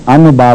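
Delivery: "ان با" with a plain, separate n; wrong clear n. Shown as a demonstration. Teacher contrasting mistakes, "ان با" with clear n. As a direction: sound the n fully in "ان با". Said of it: "بھی نہیں پڑھا میں نے".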